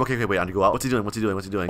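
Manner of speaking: low, soft wondering; hushed spying. Real, not acted. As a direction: murmur from a hiding spot. Spying from hiding.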